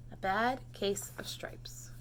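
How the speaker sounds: hushed, slow title read; whispered title. A narrator's reading. Teacher reading the book title in a slow whisper. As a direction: whisper the title slowly to the class.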